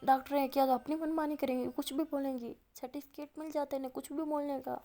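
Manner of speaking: mildly acted grumbling rant; a touch of indignant griping; sulky anger. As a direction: complain in a retold huff. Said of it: "غصے میں نا منہ چڑھا کے بولتی".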